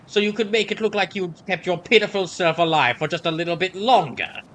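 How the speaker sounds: lightly voiced gruff villain, accusing; a hint of a bitter rival sneering; Liquid Snake voice. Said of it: "Liquid Snake's voice is more of".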